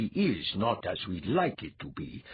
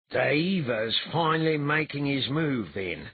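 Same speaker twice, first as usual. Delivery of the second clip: trembling voice; 7 semitones higher, 3 dB louder than usual. A narrator's reading. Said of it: "in a trembling voice".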